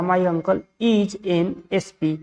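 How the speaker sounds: slow, deliberate model sentence; slow dictation. Shown as a demonstration. Teacher gives students the right answer, slow dictation. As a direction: give the corrected sentence word by word.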